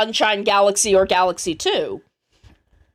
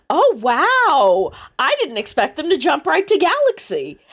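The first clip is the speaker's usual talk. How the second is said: lightly put-on streamer reaction, pitched up; 4 semitones higher than usual. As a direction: play mildly amazed for an imagined audience. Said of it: "like, in my streamer voice".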